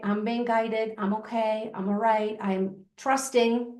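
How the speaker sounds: soft, slowing affirmation; calm affirmation. Shown as a demonstration. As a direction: settle into trust as you say it. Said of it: "and just say".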